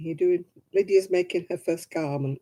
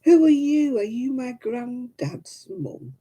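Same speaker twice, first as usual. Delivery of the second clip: put-on high little-girl questioning, slowing down; imitated little great-granddaughter; 6 semitones higher, 3 dB louder, slower than usual. Little girl working out who great-grandmother is, imitated high questioning. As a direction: question like a curious small child, pitched up. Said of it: "Then she goes".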